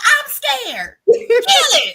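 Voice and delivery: high, loud frantic demand; shrieked plea to finish it off; scared protest. Retold or imitated. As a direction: yell it in acted panic. Retold argument with brother.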